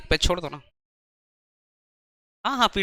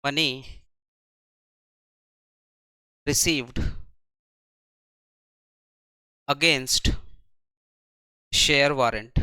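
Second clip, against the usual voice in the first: slow, a word at a time with long pauses, a bit softer; word-by-word dictation; 5 semitones lower, 4 dB quieter, slower than usual. Shown as a demonstration. Teacher dictating the entry for students to copy, slow. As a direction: dictate each word and wait. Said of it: "तो क्या लिखेंगे?".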